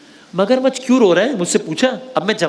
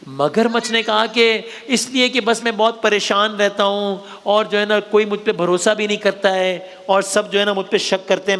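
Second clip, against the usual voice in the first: put-on storytelling to kids. Host telling children a crocodile story, storyteller's read. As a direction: tell it like a bedtime tale.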